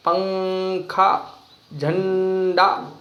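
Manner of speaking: पंखा and झंडा stretched very slowly, nasal clearly sounded; anusvar demo. Shown as a demonstration. Teacher sounding out पंखा and झंडा very slowly. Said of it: "जैसे आप लिखते हैं शंख".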